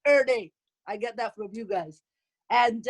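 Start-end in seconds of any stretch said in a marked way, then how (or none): 0.1-0.5 "er day", every day squashed into two syllables; daughter's slang. Shown as a demonstration. Mother quoting her daughter's language, "er day" said as slang. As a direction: show off "er day" as borrowed slang. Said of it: "her language".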